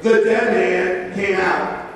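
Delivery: slow, every word weighted; slow emphasis. Shown as a demonstration. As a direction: let it land word by word. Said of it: "that's four cool words in Scripture".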